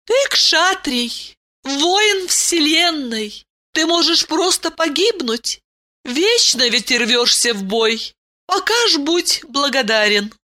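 name him a warrior gravely; solemn princess. A narrator's reading. Ailin praises the warrior. (торжественно, высокий голос)

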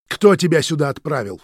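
loud shouted question. A narrator's reading. Roman shouting at Vitya, loud. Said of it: "крикнул Роман".

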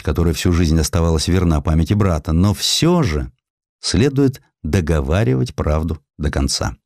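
ordinary delivery, nothing marked

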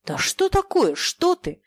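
high startled shout; surprised cry. A narrator's reading. Pushing the friend away, a high startled cry. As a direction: cry out, taken aback. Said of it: "крикнул удивлённый".

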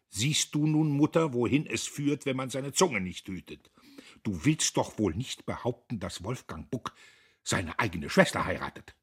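reproving lecture; scolding. Acted. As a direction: take mother to task, loud then settling. Diederich scolds his cowering mother.

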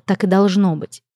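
plain reading voice

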